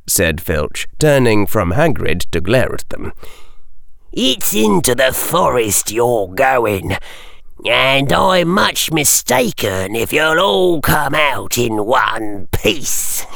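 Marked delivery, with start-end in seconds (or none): 4.1-13.2 put-on spiteful old caretaker. A narrator's reading. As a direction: savour the threat like a mean old caretaker. Caretaker threatening.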